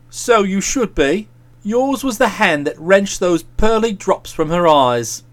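low, reproachful figure; a hint of a stern, accusing friend; lightly voiced reproachful friend.

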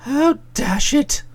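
"Oh, dash it" drawn out in protest; slow, lightly pained "Oh, dash it"; mild exasperation. Acted. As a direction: stretch "Oh" in weak dismay. Bertie protests at being blamed.

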